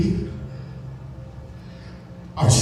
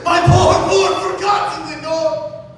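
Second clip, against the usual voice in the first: raised, higher pleading cry to the heavens; anguished cry; 6 semitones higher than usual. Acted. Grieving man crying out to the raven about lost Lenore, anguished.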